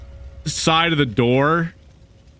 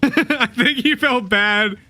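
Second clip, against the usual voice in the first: laughing; 4 semitones higher than usual. Real, not acted. Laughing while recounting.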